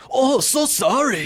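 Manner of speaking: high, slow, exaggerated mock Asian accent. Comedian's sham apology as a punchline, mock Asian accent. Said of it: "he hadn't done the accent in a while".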